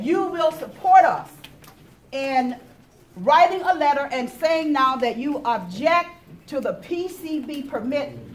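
emphatic demand. Real, not acted. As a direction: press every word home.

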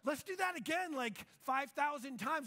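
high, loud, hammed-up enthusiasm; acted giddy excitement. Disciple asking Jesus to repeat the fish miracle, hammed-up excitement. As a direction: gush like an overexcited fan.

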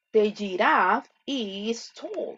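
slow, careful teacher model. Shown as a demonstration. Teacher modeling slowly for fifth graders. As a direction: spell it out slowly for the class. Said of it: "Voy a ir bien, bien despacio".

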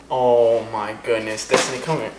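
slow heartfelt sigh of words; tender. Real, not acted. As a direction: overcome and tender. Emotional embrace.

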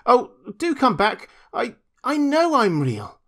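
high, loud little-rabbit plea; calling out. A narrator's reading. Toy rabbit left behind by strangers, pleading call. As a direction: plead after them, voice lifted high. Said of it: "called the little rabbit".

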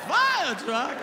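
high, loud thrilled question; delighted to hear of a fire truck; excited passenger asking about the fire truck. Acted. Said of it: "He is excited".

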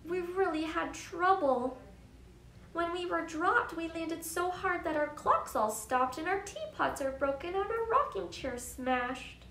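distressed little mayor. Acted. Mayor telling Horton about the hard landing, mildly distressed. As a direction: report the damage with mild alarm. Mayor reports damage in story.

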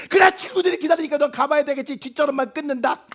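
guilt-trip him as you hang up; huffy hang-up. Acted. Mother hangs up in a huff.

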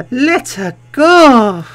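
hammed-up shout. Hammed-up exclamation in game reading.

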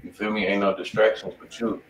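normal talking voice

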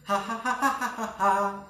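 deadly villain cackle; villain laugh. Shown as a demonstration. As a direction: laugh from the diaphragm. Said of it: "gargalhada mortal".

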